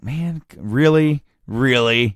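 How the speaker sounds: slow, mildly irritated retold reproach. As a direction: drag it out in mock annoyance. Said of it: "he's kinda irritated".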